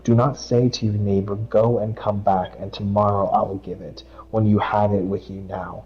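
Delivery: steady devotional read; scripture reading. Acted. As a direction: read it out like a verse at church. Reads Proverbs aloud.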